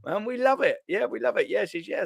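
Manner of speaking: high Italian New York voice, a hint of laughter; New York accent. Lightly voiced New York accent shouting out to Mod. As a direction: lightly play the New York guy praising her. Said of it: "she's from the N Y".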